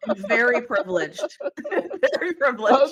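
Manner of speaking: laughing through very privileged. Real, not acted. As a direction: chuckle out the admission. Laughing self-mockery.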